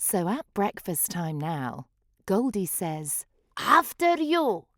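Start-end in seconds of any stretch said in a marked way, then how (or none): 3.6-4.6 higher, gracious offer; polite gecko. Acted. Goldie lets others go first at breakfast, gracious offer. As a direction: politely wave others ahead. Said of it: "with a slow waltz reverse".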